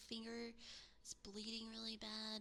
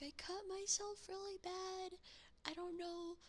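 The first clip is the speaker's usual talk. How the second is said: higher, breathless panic retold; panicked self-quote; 7 semitones higher than usual. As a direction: replay your own frantic phone call. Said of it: "And I'm like".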